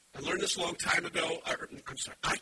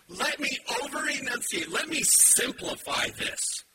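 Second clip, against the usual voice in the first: mock condescending; 5 semitones higher than usual. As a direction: spell it out for the educated. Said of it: "the Greek here is very emphatic".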